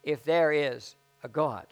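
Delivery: slow, weighty quote; slow deliberate quotation; quoted slowly. Retold or imitated. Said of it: "that he said".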